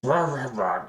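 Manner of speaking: high raspy troll, mock yelling; hammed-up scolding in a squeezed, high rasp; Cheese yelling. Coworker coming at him like a troll, mock raspy yell. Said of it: "you know, yelling at you".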